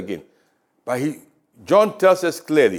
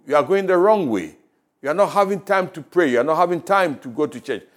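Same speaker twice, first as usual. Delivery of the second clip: voice of God; 3 semitones higher than usual. Acted. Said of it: "hear that voice of God telling you".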